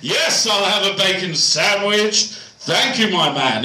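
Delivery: put-on over-enunciated posh English accent; very pronounced posh. Posh customer ordering a bacon sandwich, very pronounced posh accent. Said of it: "they talk, they're very pronounced".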